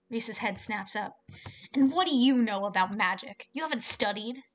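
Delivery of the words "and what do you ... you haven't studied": sharp loud comeback on "And what do you know about magic"; angry retort. Acted. Reese snapping at the others, angry. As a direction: snap back, offended.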